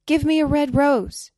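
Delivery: high, loud plea; crying out. A narrator's reading. Nightingale begging a rose tree, crying out. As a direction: call out the demand, high and loud. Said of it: "she cried".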